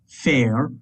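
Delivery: "fair" said with a long fada vowel like English air; Irish word féar. Shown as a demonstration. Teacher demonstrating the long fada A in féar to the class. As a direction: stretch "fair" into a long air sound, rising. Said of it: "which is air".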